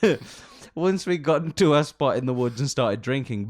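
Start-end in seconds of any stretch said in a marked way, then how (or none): 0.1-0.2 hammed-up British accent, much higher; mock British accent. Continuing British caricature.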